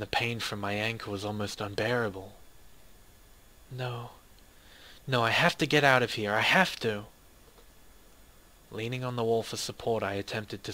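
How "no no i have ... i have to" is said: louder, forcing the words out in desperation; desperate cry to herself; desperate outburst. Acted. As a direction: refuse to give up, out loud. Trapped narrator's desperate outburst.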